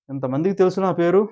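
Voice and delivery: imitating an offended celebrity; insist, voice lifted; acted affronted reply. Acted offended reply about her name.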